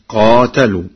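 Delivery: "قاتلوا" with a long aa after qaf and open ta; Warsh reading. Shown as a demonstration. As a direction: pronounce "قاتلوا" as qaatalu. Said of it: "بفتح القاف وألف بعدها وفتح التاء".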